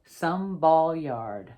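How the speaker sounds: picture-book reading, lively and clear; reading to children. Acted. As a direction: read the story to a class of kids. Author reads picture book aloud.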